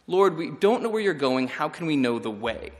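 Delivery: slight edge on don't, a touch sharper; a little bite. Shown as a demonstration. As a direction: read it with some bite. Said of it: "there should be a little bit of bite".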